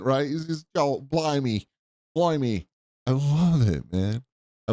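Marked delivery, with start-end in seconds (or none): 0.7-2.7 put-on a light English accent, pitched higher; host mimicking a Kent English accent. Host mimics the guest's Kent English accent. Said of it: "doesn't Paul have the great accent".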